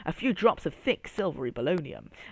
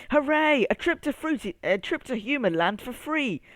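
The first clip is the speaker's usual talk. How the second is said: much higher, loud cheering hooray; excited yell; 8 semitones higher, 4 dB louder than usual. A narrator's reading. Pineapple cheers the free trip, excited yell. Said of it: "yelled Perfect Pineapple excitedly".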